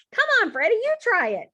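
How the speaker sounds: high, loud and eager; excited urging. A narrator's reading. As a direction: egg a friend on to have a go. Friend eggs on after laughing.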